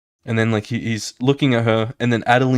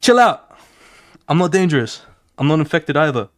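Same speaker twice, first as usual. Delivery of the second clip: urgent plea; 5 semitones higher than usual. Retold or imitated. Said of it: "She's like".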